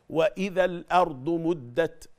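high, slow chant ending on a breathy t in "مدت"; recited with hams. Shown as a demonstration. Teacher giving another example, recitation with t puff in "مدت". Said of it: "برضو فيه همس".

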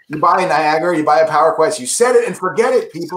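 lightly voiced TV pitchman; hint of an infomercial hype; Ron Popeil infomercial voice. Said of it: "I'm gonna sound like Ron Popeil".

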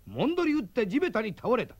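lively storyteller's fight narration; dramatic narration. A narrator's reading. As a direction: narrate the blow with punch.

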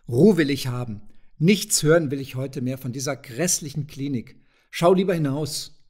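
grim, fed-up outburst. Acted. Burgstaller shouting down his friend's hospital talk, grim and loud. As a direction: cut him off, grimly irritated. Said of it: "haute ingrimmig mit der flachen Hand auf den Tisch".

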